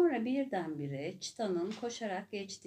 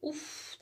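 grumbled ugh; 8 semitones higher, 5 dB quieter than usual. A narrator's reading. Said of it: "diye söylendi hayvanlar".

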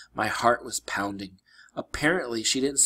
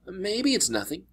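higher, uneasy brushing off; tense; 9 semitones higher than usual. Acted. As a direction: say it tensely, not convinced. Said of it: "he said tensely".

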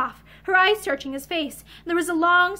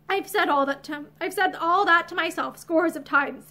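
gentle. Acted. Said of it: "he told her gently".

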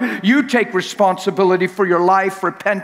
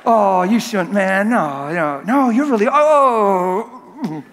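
mock bashful; much slower than usual. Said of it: "That's why I'm acting weird".

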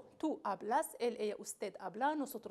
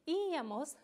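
íamos with a long, stressed first i; 3 semitones higher than usual. Shown as a demonstration. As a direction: hit the opening í of íamos. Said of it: "la I lleva acento".

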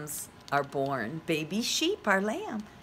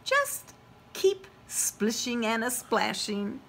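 slow, kind mother frog; reassuring mother; 4 semitones higher, slower than usual. Acted. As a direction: coax gently like a mother.

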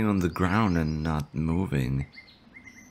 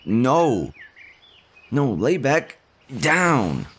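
high, louder urgent command; urgent shout; 5 semitones higher, 3 dB louder, much slower than usual. Acted. Slime urging the fainting adventurer to stay lying down, urgent shout. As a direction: stop them getting up, call out firmly.

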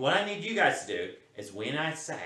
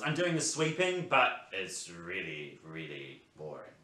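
put-on bored boy; 6 dB louder, slower than usual. Child role, bored boy.

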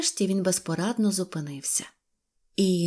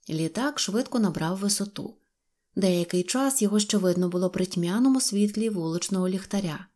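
normal talking voice

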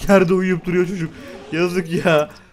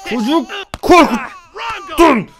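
shout; 11 semitones higher, 4 dB louder, much slower than usual. Real, not acted. Yelling at Sim scaring child.

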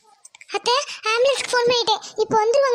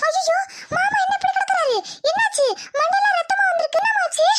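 faked shock; 9 semitones higher than usual. She fakes shock at uncle.

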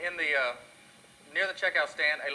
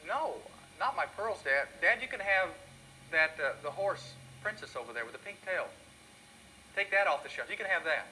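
put-on pleading little girl; 3 semitones higher than usual. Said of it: "She said".

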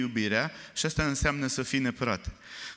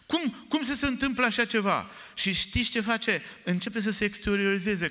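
fiery preaching; 5 semitones higher than usual. Real, not acted. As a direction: preach it hard to the congregation. Preaching at full force.

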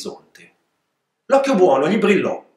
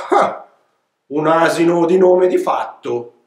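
sneering; 3 dB louder than usual. Acted. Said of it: "sghignazzarono tra di loro".

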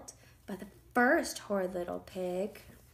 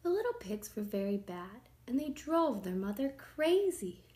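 usual speaking voice

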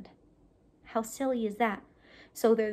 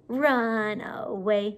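shy voice; 2 semitones lower, 3 dB louder, much slower than usual. Shown as a demonstration. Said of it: "Like they're shy".

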